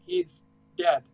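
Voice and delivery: high, strained cry of he's dead; voice breaking. Acted. Granddaughter telling the operator, voice cracking high. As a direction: let it crack upward in grief.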